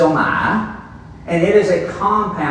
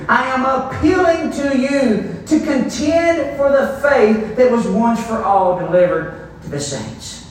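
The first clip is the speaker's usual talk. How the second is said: emphatic reading; 6 semitones higher than usual. Acted. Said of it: "what he's saying here".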